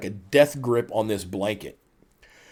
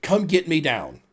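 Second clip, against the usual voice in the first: higher, emphatic retold pleading; mock panic; 6 semitones higher, 3 dB louder than usual. Wife begging husband to rescue her, mock panic. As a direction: imitate a panicked plea for rescue. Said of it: "she's in a panic".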